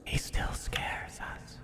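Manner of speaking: hushed, breathless creature whisper; whispering rat. Acted.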